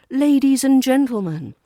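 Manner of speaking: theatrical announcer. Shown as a demonstration. Teacher demonstrating a fun theatrical address, announcer style. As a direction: announce it like a showman on stage. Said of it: "formal but fun when used theatrically".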